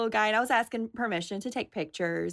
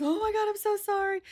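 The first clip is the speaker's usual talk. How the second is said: apologetic handler; 12 semitones higher than usual. Retold or imitated. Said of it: "And he's".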